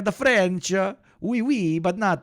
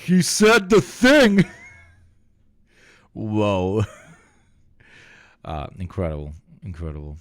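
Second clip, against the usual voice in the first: stunned disbelief; 10 semitones lower, 3 dB louder than usual. Real, not acted. Reacting to Hague Invasion Act.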